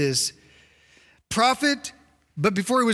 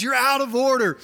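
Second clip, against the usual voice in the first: raised-pitch judge's rebuke; angry reprimand; 5 semitones higher than usual. Acted. Judge reprimanding attorney in court, angry. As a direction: rule against them with some anger. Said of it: "He's, like, angry".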